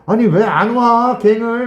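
loud, high-pitched, drawn-out whine of protest; hammed-up exasperated wail, stretched out slowly; mock gamer outburst. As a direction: imitate a gamer yelling at a teammate. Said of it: "막 이러면서 이제 난리가 나는 거죠".

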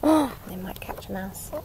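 gasp, then slow and soft; a hushed, wide-eyed gasp; gasp of surprise. Acted. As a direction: play up the shock for the little ones. Gasp at the cat's hunt.

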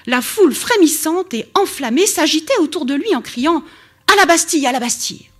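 reading a novel passage aloud to the class; lively read-aloud of a novel; story reading. A narrator's reading. Lecturer reads Dumas to students, lively storytelling.

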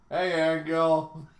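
drawn-out, unfazed "Hey, Angel"; nonchalant greeting. Acted. Player unfazed by a breaking window, nonchalant greeting. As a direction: greet an intruder slowly, as if nothing happened. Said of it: "I hear a window break and I'm just like".

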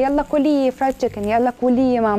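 lightly imitated pushy friend urging her to eat; a hint of careless advice-giver; mocking bad advice. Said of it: "اي كلام بقى". (تقليد خفيف لنصيحة مستهترة)

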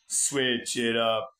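"switch it up" drawn out slowly, stressing "switch"; slow deliberate. Shown as a demonstration. Demonstrating his meme line, slow and drawn out. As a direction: stretch "switch it up" out like a catchphrase. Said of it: "Okay, it goes".

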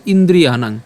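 "ইন্দ্রিয়াণাং" with long ā and nasal ending; careful pronunciation demo. Shown as a demonstration. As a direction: model "ইন্দ্রিয়াণাং" carefully, syllable by syllable. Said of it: "এদের উচ্চারণটা কেমন হচ্ছে". ("ইন্দ্রিয়াণাং" স্পষ্ট উচ্চারণে)

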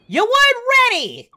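high, loud gloating yell; shouted taunt. Pretend. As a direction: crow it at the beaten fighter. Same words repeated as a taunt.

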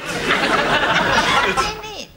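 mocking echo. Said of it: "In a minute's all you say".

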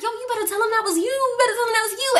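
high, hurried urging; urgent friend. Retold or imitated. Friend urging her to own up, urgent and high-pitched. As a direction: imitate a friend pressing, quick and high.

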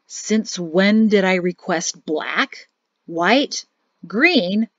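slow, sour grumble to himself; grumbling. Acted. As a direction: complain sarcastically under his breath. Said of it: "he grumbled".

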